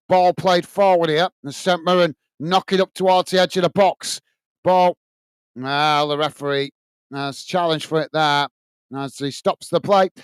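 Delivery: steady play-by-play of the match; match commentary. Acted. Fan channel host calling the match live, commentary voice. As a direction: call the action as it happens.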